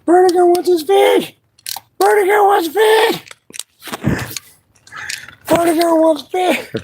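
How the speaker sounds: be the hungry cat; playful pet voice; voicing the cat.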